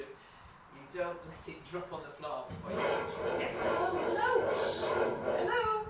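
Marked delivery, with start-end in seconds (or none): 3.4-5.9 very high, squeaky-sweet hello; pet-talk greeting. Real, not acted. Talking to a jealous animal that butts in, high pet-talk greeting.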